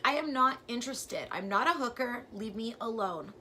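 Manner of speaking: retold scream. Jogger yelling at a stalker driving past, loud yell. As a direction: shout him off like you mean it. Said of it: "Like, I screamed at him".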